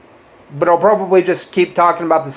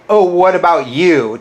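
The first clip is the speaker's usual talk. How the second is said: mocking their whiny comeback, a touch louder; mocking quote; 3 semitones higher, 4 dB louder than usual. Vlogger mimicking a critic's comeback, mildly mocking. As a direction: throw their retort back at them, sneering. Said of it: "You say".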